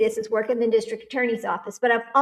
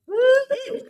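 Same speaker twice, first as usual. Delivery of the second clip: high, laughing woo-hoo; excited cheer; 11 semitones higher than usual. Real, not acted. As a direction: whoop with delight. Cheering as the stream starts.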